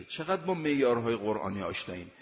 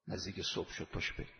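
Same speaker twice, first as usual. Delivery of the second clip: hushed, unvoiced whisper of the quote; softly whispered call to rise at dawn; 7 semitones lower, 12 dB quieter, faster than usual. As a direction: breathe it like a secret before dawn. Same quote repeated, hushed.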